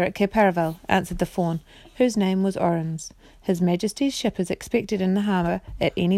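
expressive bedtime story narration; measured storyteller voice; reading to children. A narrator's reading. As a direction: read it aloud as a storybook for children. Reads story aloud to children.

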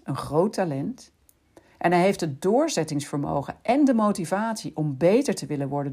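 ordinary delivery

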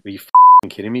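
a sudden loud retold outburst; angry yell. Angry player yelling at the writer at his door, retold outburst. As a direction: bark it at the stranger on your doorstep.

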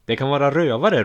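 calling out. A narrator's reading. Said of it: "ropar en annan".

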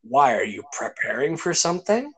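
rising, probing tune up to "something"; leading question. Retold or imitated. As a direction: let "preparing for something" climb into a knowing question. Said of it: "I said it like that".

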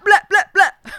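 laughing high "Blah, blah, blah"; spray it like a gun, laughing; mock gunfire. Gangster ready to shoot, laughing mock burst. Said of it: "He's ready to be like".

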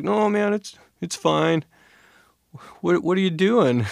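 high-pitched, brushing-it-off voice; imitated hurt friend. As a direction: play the friend insisting it's nothing.

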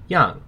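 yang in a sharp falling fourth tone, starting high. Shown as a demonstration. Teacher spelling out the word, yang in a falling fourth tone. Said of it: "Y A N G in the fourth tone".

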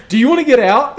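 put-on irritated driver kicking passengers out, Asian accent; imitated Asian accent. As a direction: bark it like an annoyed Asian cab driver. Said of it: "in a more Asian voice".

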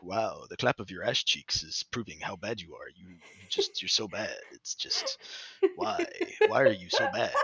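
lightly voiced stern commander Zavala; a hint of a solemn commander scolding; deadpan commander voice roasting a teammate. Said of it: "I started doing my Zavala voice".

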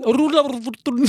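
playful put-on Sri Lankan accent. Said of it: "l'accent sri-lankais".

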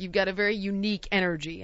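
understated passive-aggressive remark; backhanded compliment, lightly mimicked. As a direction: imitate a doctor's veiled dig. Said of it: "he's being passive aggressive".

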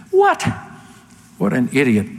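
real exasperation from the pulpit; worked up. Real, not acted. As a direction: let your outrage burst out, then scorn. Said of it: "I'm getting a little worked up".

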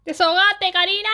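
high, loud dramatic yell; hammed-up shout. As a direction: yell it out like a soap-opera outburst. Shouting a scene's line.

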